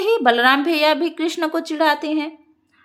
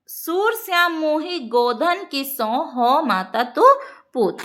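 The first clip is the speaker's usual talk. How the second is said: verse recitation; 3 semitones higher than usual. Shown as a demonstration.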